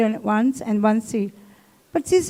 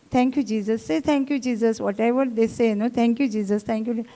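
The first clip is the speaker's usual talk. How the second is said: soft murmured thanks; 6 dB quieter than usual. Retold or imitated. Her quiet grateful prayer retold.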